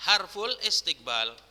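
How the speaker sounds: "harful istiqbal" with a break before "istiqbal"; "harful istiqbal" as two separated words; hamza wrongly sounded. Shown as a demonstration. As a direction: start istiqbal on its own i in "harful istiqbal". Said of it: "salah Ustaz bacanya".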